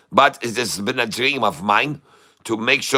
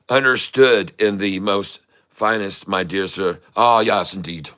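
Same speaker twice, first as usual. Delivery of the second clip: hammed-up posh British English accent; mock British accent; 3 semitones lower than usual. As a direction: play a stuffy Englishman over tea, British accent. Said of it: "I do indeed try to replicate the voices of people from other places".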